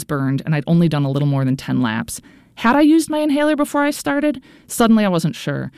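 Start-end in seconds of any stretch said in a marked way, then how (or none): 2.6-4.4 much higher, anxious inner question; sudden panic. A narrator's reading. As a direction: let the panic spike up. Sudden panic about inhaler.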